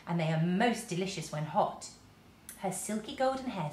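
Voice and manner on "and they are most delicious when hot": friendly greeting. Acted. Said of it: "looking up and smiling".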